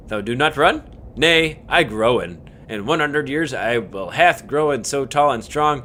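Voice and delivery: a hint of a vengeful old tree; menacing tree. Voicing tree character.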